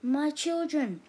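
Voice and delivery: loud, high, slow cry of relief; relieved cry. A narrator's reading. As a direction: cry out for her children.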